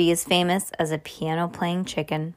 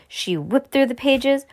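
ordinary delivery

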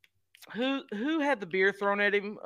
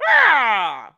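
scream; 3 semitones higher, 9 dB louder than usual. Retold or imitated. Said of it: "do that one more time".

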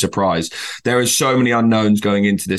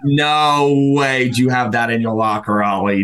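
mock booming voice; slower than usual. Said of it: "overpowering voice going".

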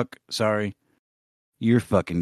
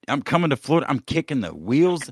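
hammed-up tough-guy threat, a touch higher; mock threat; 4 semitones higher than usual. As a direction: play the bully who's coming for Sammy. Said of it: "I'm real mad".

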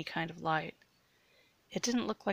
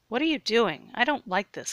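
louder, higher distressed protest; complaining; 4 semitones higher, 6 dB louder than usual. A narrator's reading. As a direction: complain in rising alarm. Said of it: "complained Jared".

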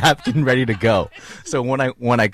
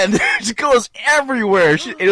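can barely get it out for laughing; 9 semitones higher than usual. Real, not acted. Telling friends the punchline, laughing hard.

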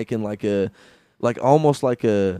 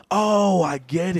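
mock realization; 6 semitones higher, slower than usual. Storyteller imitating everyone on acid, mock dawning realization. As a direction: stretch the "oh" like sudden understanding.

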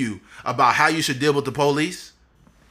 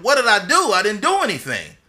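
retold cry of protest, pitched up and louder; protesting shout; 7 semitones higher, 5 dB louder than usual. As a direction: relive the helpless outburst at the officer. Retold protest to police officer.

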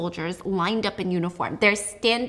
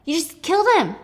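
mock whiny Juliet, higher and louder; lightly whined accusation; whining; 7 semitones higher, 5 dB louder than usual. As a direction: whine it at him like a hurt teenager. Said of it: "she's whining at him".

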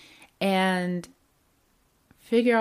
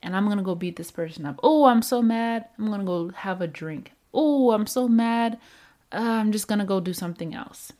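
mock anger; 2 semitones higher, faster than usual. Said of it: "Not when we're like".

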